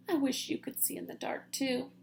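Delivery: soft wistful sigh. Acted. Stellaluna sighing to her bird friends, soft. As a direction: wish it quietly. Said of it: "Then she sighed".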